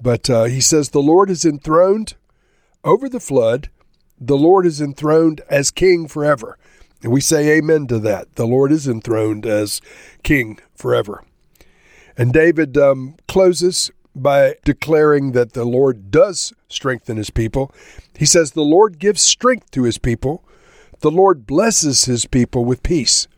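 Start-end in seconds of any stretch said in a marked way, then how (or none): 0.9-6.6 measured, emphatic psalm reading with pauses; scripture reading. Acted. Preacher reads a psalm to listeners, measured scripture reading. 18.5-23.3 measured, emphatic psalm reading with pauses; scripture reading. Acted. Preacher reads a psalm to listeners, measured scripture reading.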